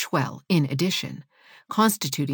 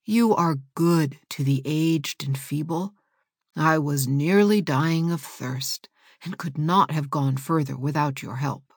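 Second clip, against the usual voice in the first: put-on old woman voice. Old woman thanks the boys.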